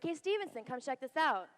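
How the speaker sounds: a high called-out yell across the ship; retold yell. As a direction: shout it to a friend to come look. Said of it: "my friend yells to me".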